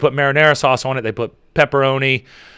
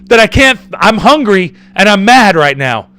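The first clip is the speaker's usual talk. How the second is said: raised, insistent mock complaint; acted hangry rant; 4 semitones higher, 5 dB louder than usual. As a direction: act out being seriously pissed off and hungry. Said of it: "I'm seriously pissed off".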